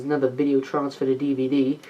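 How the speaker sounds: offhand imitation of British speech; put-on British accent. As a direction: quietly slip into a British accent. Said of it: "my accent's stuck like this forever".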